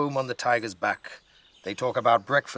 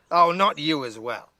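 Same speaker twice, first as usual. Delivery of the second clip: louder, higher exasperated cry; girl fed up with the grumpy bear, louder; exasperated shout; 5 semitones higher, 5 dB louder than usual. A narrator's reading. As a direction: throw up your hands and call it out. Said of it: "shouts Nora".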